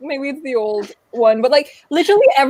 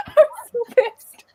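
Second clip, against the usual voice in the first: higher, slow mock complaint; 8 semitones higher, slower than usual. Shown as a demonstration. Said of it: "And I'm just like".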